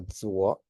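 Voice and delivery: "Zuo" starting with a DS sound. Shown as a demonstration. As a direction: say "Zuo" like "dzwo". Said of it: "the Z is like a D S".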